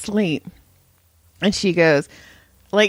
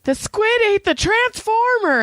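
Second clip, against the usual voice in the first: sleepy nonsense quote; 13 semitones higher than usual. Retold or imitated. Retelling odd sleep-talk line.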